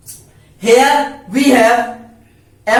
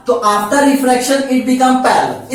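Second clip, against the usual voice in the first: slow dictation; much slower than usual. Shown as a demonstration. Teacher dictating second rule.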